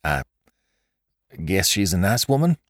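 halting, lightly choked reply; choking voice. A narrator's reading. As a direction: catch on the first word, then force it out. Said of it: "replied in a choking voice".

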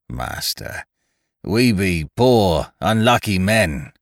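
slow, heavy, mournful plea. A narrator's reading. Beaten castaway mournfully appealing to the ship's master. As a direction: sound beaten and sorry for yourself. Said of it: "returned Thomas Winter mournfully".

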